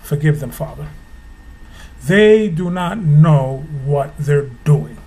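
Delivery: a touch of Christ's tender plea from the cross; gentle plea. Retold or imitated. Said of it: "took our place on the cross and said".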